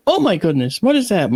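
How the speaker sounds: retold shocked exclamation; startled neighbor. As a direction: gasp it out at a shocking sight on the doorstep. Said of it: "she answers the door and she goes".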